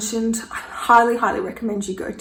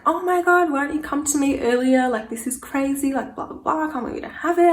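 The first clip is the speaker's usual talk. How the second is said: mock panicked doctor, high and rushed; doctor exclaims in alarm about the late period, imitated, pitched high; freaking out; 4 semitones higher than usual. The doctor freaking out at her, a lightly hammed-up alarmed voice. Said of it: "And she freaks out".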